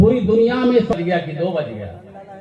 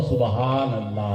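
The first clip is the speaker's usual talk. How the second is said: louder call; 8 semitones lower than usual. Shown as a demonstration. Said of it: "जरा जोर से".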